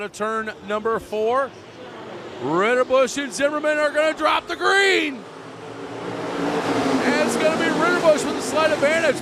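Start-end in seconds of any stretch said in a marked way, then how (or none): 2.4-9.2 rising excited race call; motorsport commentator. Real, not acted. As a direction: lift the voice as the green drops. Green flag drops.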